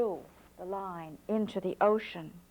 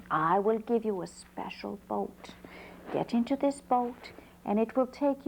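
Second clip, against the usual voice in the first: put-on old man. Old man advises the hunter.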